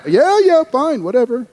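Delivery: high, brushed-off retold assent; dismissive agreement. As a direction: give in just to be left alone. Pupils hurriedly giving in to teacher.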